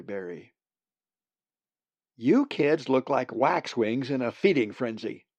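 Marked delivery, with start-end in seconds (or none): 2.2-5.3 scolding. Acted. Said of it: "Marg scolded".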